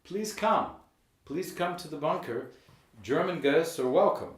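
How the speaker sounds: high, loud inviting call. Pretend. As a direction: call out to the ghosts. Calling out to ghosts.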